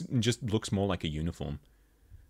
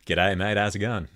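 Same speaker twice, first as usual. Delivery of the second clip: Australian greeting. Shown as a demonstration. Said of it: "in case someone can't tell, uh, by my ridiculously thick accent".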